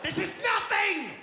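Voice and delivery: put-on fast, loud whining kid, jumping high; whiny kid tantrum. Kid bored by a beautiful day, loud whiny tantrum. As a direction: throw a bratty tantrum. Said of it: "the kid's like".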